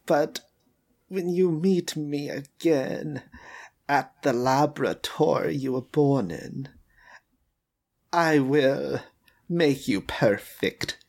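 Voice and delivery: slow, menacing creator voice; menacing villain. Acted. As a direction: speak slowly, like a cold mad scientist. Villain father threatens his creation.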